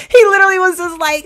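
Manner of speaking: high, loud talk through laughter; laughing while talking. Real, not acted. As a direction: keep laughing as you speak. Laughing through her words.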